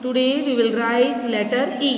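put-on slow, careful words for small children; slow teacher voice. Shown as a demonstration. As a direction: spell it out slowly for the class. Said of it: "slow teacher demo to children". (बच्चों के लिए धीरे-धीरे)

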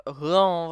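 slow, nasal-free mock villager grunt "hıam"; villager hum. Gamer imitating the Minecraft villager's slow hıam grunt. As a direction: drag out the villager's hıam noise. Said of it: "falan diyor".

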